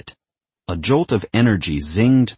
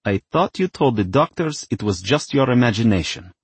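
higher-voiced, mildly screechy mother; mild screech; 5 semitones higher than usual. A narrator's reading. Mother challenging her daughter over the ghost, mildly screeching. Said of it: "screeched Mother".

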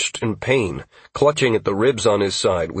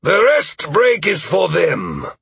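slow, high, raised voice; commander's loud reprimand; ringing shout; 9 semitones higher, 4 dB louder, slower than usual. Acted. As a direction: call it out sternly across the field. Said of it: "voice rang out".

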